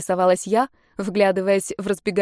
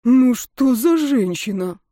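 slow, exaggerated groan of despair; hammed-up sigh of a big guy defeated; slow mock-suffering complaint; theatrical moan; 5 semitones higher, 4 dB louder, slower than usual. A narrator's reading. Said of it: "простонал наш амбал".

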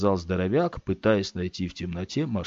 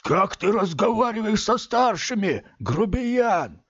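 barked rebuke; 12 semitones higher, slower than usual. Acted. Man scolding Scott for rudeness, barked. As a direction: bark at the rude boy. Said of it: "и он рявкнул".

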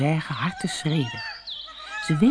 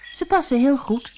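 put-on higher girl's voice, pleased; 8 semitones higher than usual. A narrator's reading. Doortje tries on the silver shoes. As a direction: say it happily like a young girl. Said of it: "zei ze".

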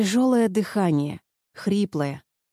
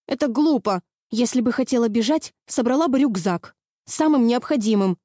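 desperate protest; 3 semitones higher than usual. Acted. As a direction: plead your innocence in panic. Terrified girl protests to drunk captor.

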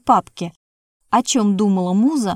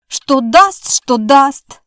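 louder, higher mocking echo; mocking mimicry; 4 semitones higher, 7 dB louder, much slower than usual. A narrator's reading. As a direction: mimic her words back, teasing. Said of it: "передразнила она". (передразнивая, громче и выше)

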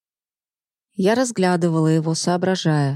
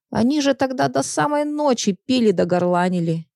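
put-on old woman voice; 2 semitones higher than usual. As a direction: complain like a nosy old lady. Old woman tells about neighbours.

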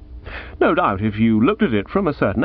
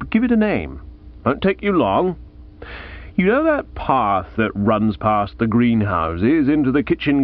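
lightly voiced Aunt Dahlia.

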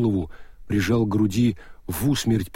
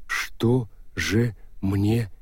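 slow stone monotone; 2 semitones lower, 4 dB quieter, much slower than usual. Acted. Golem ghost asks.

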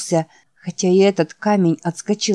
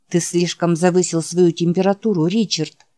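calm, level reply. Acted. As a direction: answer him calmly and evenly. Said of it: "спокойно сказал Джек". (спокойно)

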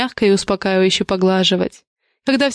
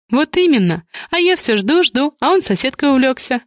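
teasing and higher, with a pointed hint; insinuating; 5 semitones higher than usual. Acted. Sister teases brother for ignoring her, pointed hint. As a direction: needle him playfully with a hint. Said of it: "с намёком сказала сестра".

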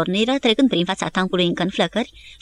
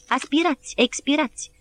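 higher, rising drill calls; rhythmic breathing commands; 6 semitones higher than usual. A narrator's reading. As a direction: count the breaths like a drill officer. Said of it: "striga locotenentul". (comenzi ritmate, mai înalte, ca de instructor)

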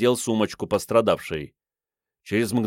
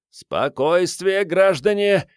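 barked; 9 semitones higher, slower than usual. Acted. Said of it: "гаркнул".

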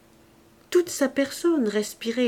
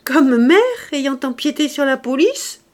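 laughing; 6 semitones higher, 8 dB louder than usual. A narrator's reading. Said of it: "se mit à rire".

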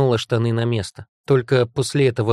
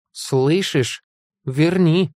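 raised, insistent command; angry, frightened demand; 5 semitones higher, much slower than usual. A narrator's reading. Heroine ordering monster to restore father, angry demand. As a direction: demand it back forcefully. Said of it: "Я так сильно разозлилась и испугалась".

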